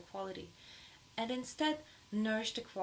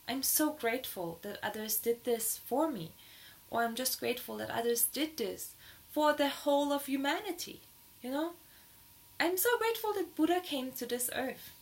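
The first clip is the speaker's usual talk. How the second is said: rising higher and louder with joy; high and excited; 4 semitones higher, 4 dB louder than usual. Shown as a demonstration. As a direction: let the gratitude lift your voice up. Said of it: "my voice is getting all high and excited".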